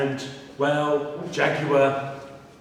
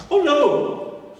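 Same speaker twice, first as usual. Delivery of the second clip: high rabbit voice; 11 semitones higher than usual. Acted.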